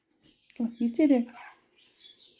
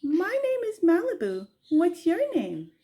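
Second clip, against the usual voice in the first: high parrot voice; 8 semitones higher than usual. Retold or imitated. Owner prompting Malibu to speak, high parrot-like voice. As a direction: pitch it up like the bird would.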